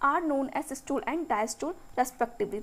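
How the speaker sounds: very slow, word by word, so students can write; slow textbook dictation. Shown as a demonstration. Teacher dictating the definition to her students, slowly. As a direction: read each English word out slowly and evenly.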